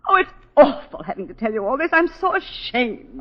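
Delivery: choking back tears of shame; tearful shame. Acted. Wife confessing to the lawyer, crying with shame.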